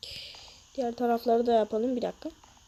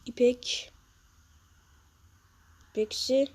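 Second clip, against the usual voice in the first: whisper; 4 dB quieter, slower than usual. Real, not acted. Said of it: "whispered word".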